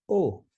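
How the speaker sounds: "O" as the vowel in hola; pronounced O. Shown as a demonstration. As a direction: say a clear round "O". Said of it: "It's pronounced".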